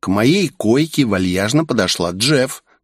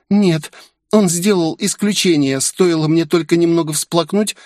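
put-on higher, sly girl boasting; a touch of cunning girlish pride; slyly; 9 semitones higher than usual. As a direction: brag of wrapping men round your finger. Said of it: "хитро произнесла Минами".

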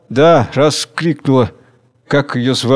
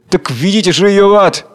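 higher, louder, enraged cry; furious shout; 6 semitones higher, 4 dB louder than usual. A narrator's reading. The girl in black, enraged, shouting her down. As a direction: hurl it out in a frenzy. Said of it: "кричит гневно, в неистовстве".

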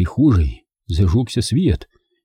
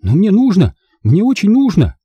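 put-on high, loud, insistent boy; urgent, desperate insistence; shouting; 11 semitones higher, 5 dB louder than usual. A narrator's reading. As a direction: plead loudly in a child's high shout. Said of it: "закричал Бенжи".

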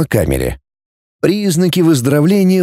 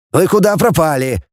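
mild scolding, pitched up; cross but glad; 4 semitones higher than usual. A narrator's reading. Teacher meets the missing trio, cross but glad. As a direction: scold them with relief. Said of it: "сердясь и радуясь".

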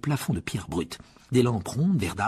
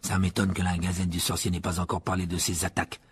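musing; 5 semitones lower than usual. Acted. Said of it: "d'un air songeur".

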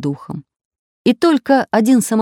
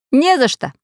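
modest; 7 semitones higher than usual. A narrator's reading. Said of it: "скромно ответил Самоделкин".

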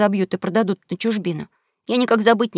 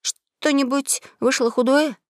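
timid question; 5 semitones higher, slower than usual. Acted. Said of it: "говорю этак несмело".

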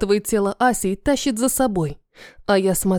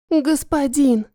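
a touch of tremble, pitched up, falling away; trembling squeak; 4 semitones higher, slower than usual. Acted. Asya pleads to her master, high trembling squeak. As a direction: whimper the title up high, mildly shaky. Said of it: "дрожащим голосом пищит Ася".

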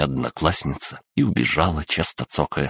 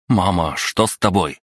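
shouted from the doorway; 3 semitones higher than usual. Acted. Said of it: "с порога выкрикнул".

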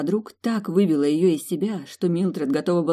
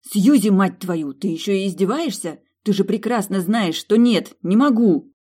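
loud, higher exasperated shouting; yelling through the door at Suzie; angry yell; 3 semitones higher, 5 dB louder than usual. Acted. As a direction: lash out at the mocking friend. Locked in, yelling at friend.

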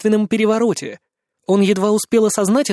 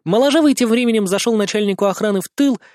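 ordinary delivery, nothing marked

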